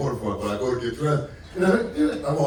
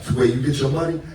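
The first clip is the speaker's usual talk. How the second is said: imitating a Haitian accent, a bit higher and louder; 4 semitones higher, 3 dB louder, faster than usual. Will asking the young comic about his pay, Haitian accent. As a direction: call out the name in a Haitian accent. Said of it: "Will got that heavy Haitian accent".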